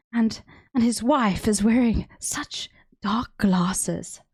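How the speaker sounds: slow, drawn-out mock South African accent; Cape Town wine mum accent. Streamer imitating dad complaining about politics, Cape Town wine mum accent. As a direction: mimic a Capetonian wine mum, stretching the words. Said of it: "wine mum accent".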